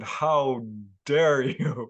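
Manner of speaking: imitated outraged accusation, dragged out; livid retelling. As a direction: draw out the retold indignation slowly. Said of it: "he was livid with anger".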